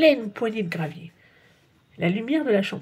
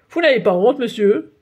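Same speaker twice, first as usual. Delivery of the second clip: louder, stern reproach; stern scolding; 2 semitones higher, 7 dB louder than usual. A narrator's reading. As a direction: scold the grown man. Policier scolds father.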